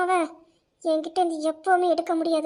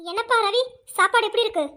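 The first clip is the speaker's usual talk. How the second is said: higher and louder, syrupy and showy; mock sweet call; 6 semitones higher, 5 dB louder than usual. Aunt asks Ravi about dinner in loud mock sweetness. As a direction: overdo the sweetness so the whole table hears.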